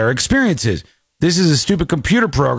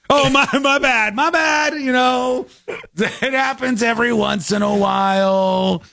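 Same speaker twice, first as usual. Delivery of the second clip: mock AI apology; 8 semitones higher than usual. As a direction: play the glitchy AI brushing it off. Voicing the AI's apology.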